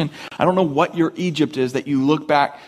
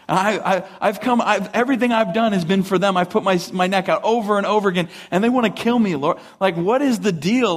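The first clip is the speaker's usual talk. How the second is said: desperate pleading; 6 semitones higher than usual. Retold or imitated. Moses pleading with God.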